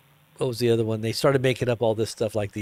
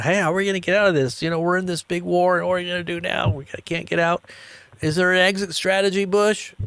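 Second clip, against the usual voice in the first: mock worried public; 6 semitones higher than usual. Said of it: "we were all talking about".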